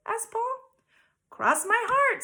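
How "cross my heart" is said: high, loud tempting little voice; squeaky temptress pigtail. A narrator's reading. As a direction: coax him like a tiny imp.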